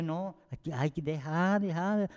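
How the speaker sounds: soft, slow plea to let it be; hushed, drawn-out fatherly reassurance; retold soothing dissuasion. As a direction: gently talk a daughter down. Retelling how he soothed his daughter.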